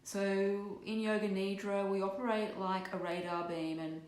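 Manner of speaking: measured meditation guide with long pauses; guided meditation. Acted. Yoga teacher easing live listeners into Yoga Nidra, guided meditation. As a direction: lead listeners gently into rest, leaving space between phrases.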